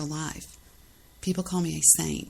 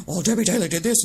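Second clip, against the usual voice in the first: mocking whine; 4 dB louder, faster than usual. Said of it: "He's like".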